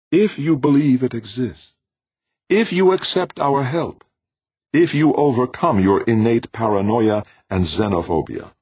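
high, measured voice of an alien being. Acted. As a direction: speak as a calm cosmic presence. Alien voice lists conditions.

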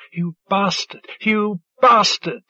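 rising anguished cry, moderately acted. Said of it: "Djale cried".

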